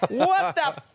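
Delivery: high, drawn-out disbelieving cry; exasperated re-enacted outburst. Fan reliving the winger's blunder for co-hosts, high exasperated outburst. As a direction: stretch it out, high and incredulous. Re-enacts his reaction to the game.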